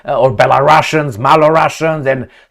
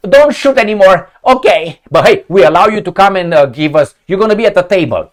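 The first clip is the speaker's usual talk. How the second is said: higher-pitched mock plea; acted pleading; 5 semitones higher, 4 dB louder than usual. Losing side begs the Russians to stop shooting, mock pleading. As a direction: hurriedly bargain as the losing side.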